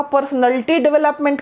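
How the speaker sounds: "पर्सनैलिटी" squeezed to per-snul-tee; no long A in "पर्सनैलिटी"; imitated mispronunciation. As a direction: imitate bad teachers' squashed "पर्सनैलिटी". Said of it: "जो गलत सलत भी सिखा रहे हैं".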